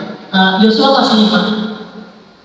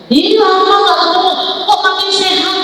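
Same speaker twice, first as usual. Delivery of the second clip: teasing quote; 7 semitones higher than usual. Retold or imitated. Mocking acquaintances in retold anecdote.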